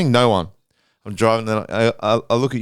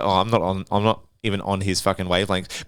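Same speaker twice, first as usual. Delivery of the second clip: retold dismissal; 9 semitones lower, 5 dB quieter than usual. Retold shrugging off the anger.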